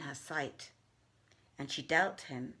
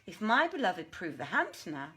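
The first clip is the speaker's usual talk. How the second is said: raised, lively voice of a haughty jinniya; jinniya's proud challenge; 2 semitones higher than usual. Acted. Maymunah wagers with the Ifrit, proudly. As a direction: boast of your beloved with proud confidence.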